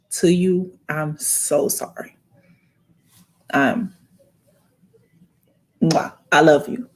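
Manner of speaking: real tears held back while comforting; teary-eyed. Real, not acted. Consoling a grieving viewer while remembering her grandfather, teary. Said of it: "I'm getting teary-eyed now just thinking about it".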